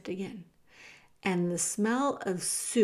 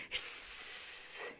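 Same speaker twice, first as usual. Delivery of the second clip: long, voiceless hiss; soft, drawn-out hiss; 9 dB quieter than usual. A narrator's reading. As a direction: rats hissing in disapproval. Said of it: "hissed the other rats".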